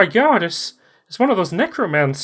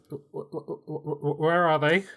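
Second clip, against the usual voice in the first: holding back tears; 4 dB quieter than usual. Acted. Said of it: "trying to hold back tears".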